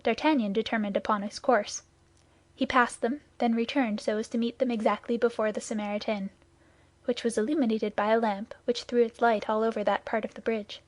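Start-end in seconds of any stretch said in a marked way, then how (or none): none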